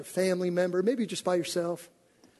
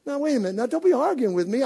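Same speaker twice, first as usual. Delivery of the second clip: ordinary talk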